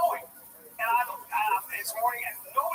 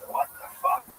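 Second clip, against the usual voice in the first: high, startled mock outburst; retold shocked outburst. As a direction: replay the moment you saw the crash, pitched up. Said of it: "I went".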